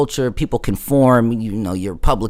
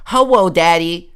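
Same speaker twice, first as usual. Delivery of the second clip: mock little-girl coo, slow and louder; breathy little-girl greeting; imitating a girl playing a child; girlish voice; 5 semitones higher, 5 dB louder, slower than usual. Girl greets him in role.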